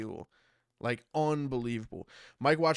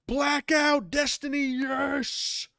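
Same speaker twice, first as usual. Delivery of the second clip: high put-on voice; 12 semitones higher, 4 dB louder, much slower than usual. Reads chat in put-on voice.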